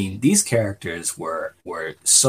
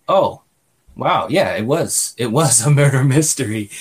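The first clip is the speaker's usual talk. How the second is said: realization; 4 semitones higher, 4 dB louder than usual. Retold or imitated. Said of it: "you realize".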